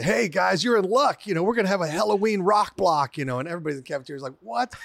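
upbeat radio DJ announcing a rock block; mock radio host hype. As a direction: sell it like a high school DJ.

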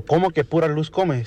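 puzzled teacher. Acted. Maestra presses Pepito to explain, mildly puzzled teacher. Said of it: "Y la maestra le dice".

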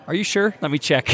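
high, doubtful mock question; incredulous friend. Retelling how Danielle doubted him, mock incredulous. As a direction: play the doubting friend checking. Friend voiced in retold story.

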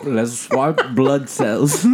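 slow, laughing suggestion. Real, not acted. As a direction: drag it out with a laugh. Silly idea, slow and laughing.

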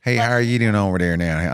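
put-on mild try at a Nashville accent. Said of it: "can you give me a bit of Nashville?".

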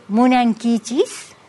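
"Munankichis" spelled out slowly, syllable by syllable; slow Quichua demo. Shown as a demonstration. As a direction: teach "Munankichis" slowly and carefully. ("Munankichis" dicho despacio, sílaba por sílaba)

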